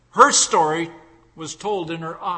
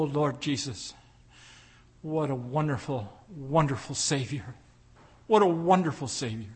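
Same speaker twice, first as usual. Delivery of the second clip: earnest pastoral prayer voice; closing prayer; 3 semitones lower than usual. Real, not acted. Preacher leading his church in a closing prayer, earnest. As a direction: pray over the congregation sincerely.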